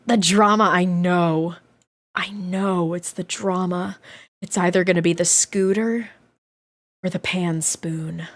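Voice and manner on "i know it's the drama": hushed suspense. Acted. Streamer hushing chat before the reveal, hushed. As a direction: drop to a hushed, slow murmur.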